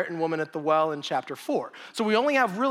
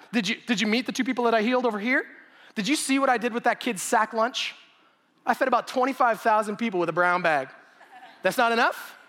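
eager, slightly higher retelling of Jesus listing his deeds; excited Jesus; 4 semitones higher than usual. Retold or imitated. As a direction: show off the miracles with mild excitement. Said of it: "He's excited".

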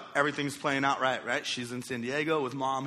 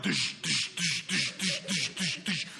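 heartbeat noise; 3 dB quieter, slower than usual. Retold or imitated. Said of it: "my shirt was going like".

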